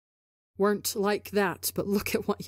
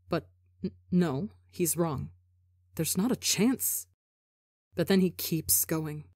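impression of Tebo. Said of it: "scarily accurate impression of him".

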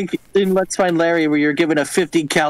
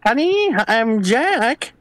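much higher, squeaky reply; high mock voice; 4 semitones higher, much slower than usual. Mocking high answer.

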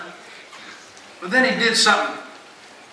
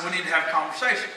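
quick, soft mock-deep voice; 2 semitones lower, 7 dB quieter, faster than usual. Husband insisting to his wife on a talk, deep voice. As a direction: put on a slightly deep, firm tone. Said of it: "I used my deep voice".

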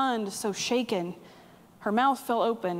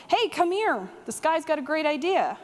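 raised, higher calling voice; shouted call to the back room; 4 semitones higher than usual. Retold or imitated. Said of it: "and he shouted".

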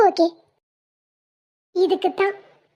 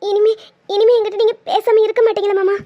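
tearful pleading question; crying. Acted. Wife asks husband to promise he'll keep talking, crying. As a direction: seek a promise through tears. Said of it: "அழுகையை நிறுத்து".

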